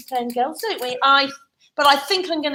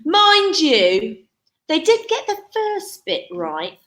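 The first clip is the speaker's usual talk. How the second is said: story narration; 3 semitones higher than usual. A narrator's reading. Storyteller sets up Cinderella in the cellar, dramatic narration. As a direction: tell it to children with big swings. Storyteller performing rhyme to children.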